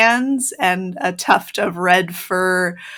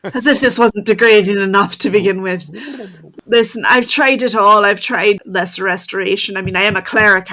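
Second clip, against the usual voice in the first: werewolf voice; 6 dB louder than usual. Acted. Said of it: "In your werewolf voice".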